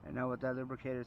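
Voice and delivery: talking around a flashlight; mouth propped open. Real, not acted. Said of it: "I have to hold the flashlight in my mouth".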